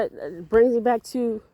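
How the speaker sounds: breathless, still shaken from the scare; out of breath. Real, not acted. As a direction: talk while catching your breath. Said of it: "I'm trying to catch my breath".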